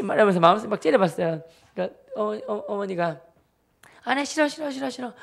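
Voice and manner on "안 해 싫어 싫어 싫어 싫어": high-pitched, rapid-fire mimicked refusal; mock stubborn refusal. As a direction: imitate a mother flatly refusing, pitched up. Mother refusing, retold.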